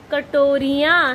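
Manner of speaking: कटोरियाँ slowed, its plural ending drawn out; stretched plural ending. Shown as a demonstration. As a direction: draw out कटोरियाँ for the class. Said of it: "चार कटोरी क्या कहलाएंगी". (कटोरियाँ खींचकर बोलें)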